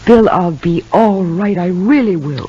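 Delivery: shaky reassurance. Acted. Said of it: "Your hands aren't very steady".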